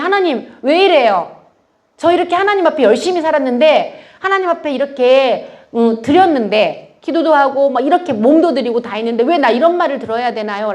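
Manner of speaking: retold plaintive protest to God; resentful complaint. Church speaker retelling her tearful prayer to God, reproachful. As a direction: plead your case, mildly aggrieved. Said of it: "원망하면서 막 울었거든요".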